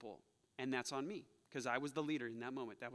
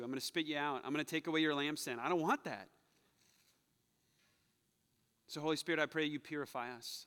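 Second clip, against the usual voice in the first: earnest pastoral prayer. Acted. Leads closing prayer.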